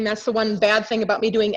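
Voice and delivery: usual speaking voice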